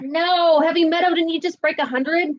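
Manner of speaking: high, playfully surprised; surprised protest. Real, not acted.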